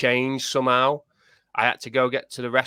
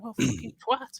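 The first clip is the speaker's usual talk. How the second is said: softer, much higher mock swear; half-joking curse at the wife, pitched up; mock angry curse; 13 semitones higher, 5 dB quieter than usual. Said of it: "I got dead angry at the wife".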